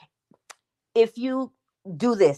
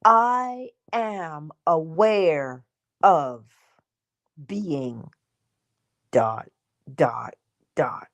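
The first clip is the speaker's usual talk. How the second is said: mantra read; 3 semitones lower, much slower than usual. Shown as a demonstration. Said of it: "it starts with".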